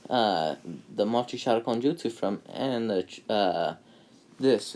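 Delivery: high eager kid voice, lightly voiced; a light imitation of an excited boy; lightly voiced eager young ninja; Naruto's eager voice. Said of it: "and Naruto goes".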